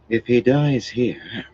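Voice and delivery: slow, cutting woman's voice; sharp. A narrator's reading. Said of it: "she cut off as sharply".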